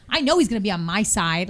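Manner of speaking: plain, unrefined American delivery; trashy American accent. Shown as a demonstration. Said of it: "I sound trashy".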